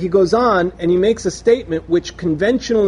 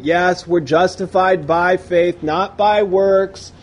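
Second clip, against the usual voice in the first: rote recital; slower than usual. Retold or imitated. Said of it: "the same old thing".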